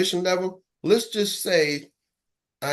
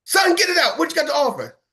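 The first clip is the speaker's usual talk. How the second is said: much higher, louder demand; impatient old man; 10 semitones higher, 4 dB louder than usual. Retold or imitated. Annoyed homeowner demands the caller get to the point, much higher and louder. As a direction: bark at the kid to spit it out.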